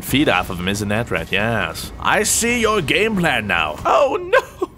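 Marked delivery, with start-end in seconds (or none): 3.8-4.7 shrill high yelp of surprise; a sudden pitched-up "oh no"; real alarm, shouted high; startled shout. Real, not acted. Teammate Nate gets killed.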